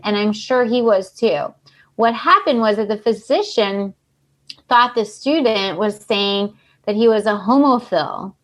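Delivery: measured read-aloud narration; story reading. A narrator's reading. Host reading cohosts a miscommunication case, even narration. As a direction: read the case out like a written report.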